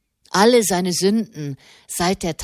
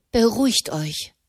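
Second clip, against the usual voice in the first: a bitter echo, pitched higher; 5 semitones higher than usual. Acted. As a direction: throw the words back, a touch bitter. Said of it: "wiederholte Katharina bitter". (bitter wiederholt)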